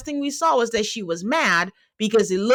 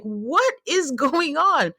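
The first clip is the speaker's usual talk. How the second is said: exasperated; 6 semitones higher, much slower than usual. Retold or imitated. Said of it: "I'm screaming into my pillow".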